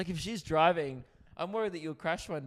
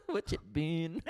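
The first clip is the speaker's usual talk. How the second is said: put-on New Zealand accent; slower than usual. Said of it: "sang in New Zealand".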